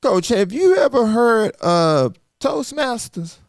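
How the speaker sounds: imitating a friend's drawn-out Southern pitch; Southern drawl. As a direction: stretch it out in a thick Southern drawl. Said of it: "a strong Southern drawl".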